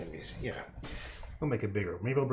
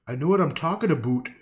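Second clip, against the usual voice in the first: insistent; 4 semitones higher, 6 dB louder, faster than usual. Real, not acted. Repeats louder.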